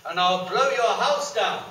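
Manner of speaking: slow, loud menacing threat building up; big bad wolf threatens; threatening wolf. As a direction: growl the threat, rising to a roar.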